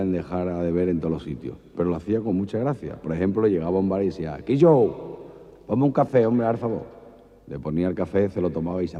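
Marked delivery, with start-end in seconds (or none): 4.4-6.8 louder, higher Andalusian bar call; Andalusian accent. Acted. Andalusian man ordering coffee on credit, Andalusian accent. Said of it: "había un andaluz".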